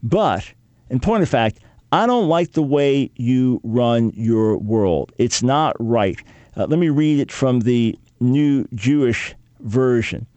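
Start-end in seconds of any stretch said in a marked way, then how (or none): 0.0-6.2 slow, deliberate protest to God; slow grudging complaint. Retold or imitated. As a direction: spell out the grievance slowly. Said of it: "Jeremiah's basically saying to the Lord".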